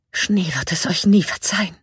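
hushed, unvoiced warning; whispering. A narrator's reading. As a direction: breathe it in a whisper. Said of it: "flüsterte Circe". (geflüstert)

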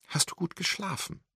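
high, put-on bright question to a sleeping grandmother; forced cheerfulness. A narrator's reading. Wendy at the sickbed, asking in forced cheerful tone. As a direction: fake cheer covering worry. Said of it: "fragte sie aufgesetzt fröhlich".

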